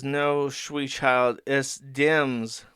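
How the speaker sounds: lightly voiced cat, drawing words out; slow, odd cartoon cat talk; fat cat character. Fat cat correcting the father, lightly voiced slow cat.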